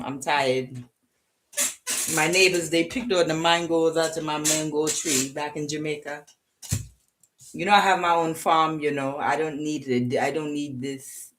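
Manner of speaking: weary put-on Jamaican accent; Jamaican accent slipping African. Reader voicing the tired Jamaican, uneven Caribbean accent. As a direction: imitate a Jamaican, drifting towards an African accent. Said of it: "I'm going into an African accent".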